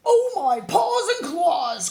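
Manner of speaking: high, loud cry of alarm; frightened cry. Acted. The scared bear crying out at the river, high panicked yelp. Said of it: "cried the large and growly bear".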